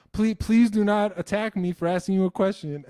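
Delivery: high, loud begging through a laugh; mock pleading fan. Mocking a fearful fan pleading with him, laughing. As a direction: beg like a terrified viewer, laughing.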